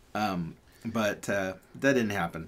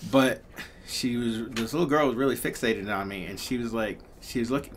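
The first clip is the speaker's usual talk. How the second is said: ordinary talk, nothing marked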